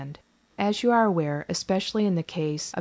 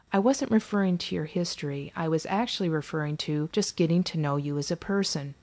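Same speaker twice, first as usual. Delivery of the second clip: soft. Acted. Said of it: "I softly stated".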